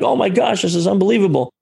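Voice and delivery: a lightly voiced overjoyed wife; excited high exclamation; thrilled. Wife thrilled by free upgrade.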